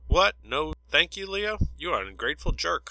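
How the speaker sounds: offended pilot snapping back over the radio; a bit of anger. A narrator's reading. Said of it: "Holiday said with a bit of anger".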